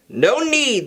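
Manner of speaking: coldly clipped; a hint of icy heiress. Weiss to Ruby, icily dismissing. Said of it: "the heiress said icily".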